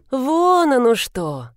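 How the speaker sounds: a slow mocking "so that's it"; mocking snort. A narrator's reading. Heroine snorts at his offer, slow and mocking. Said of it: "хмыкнула я".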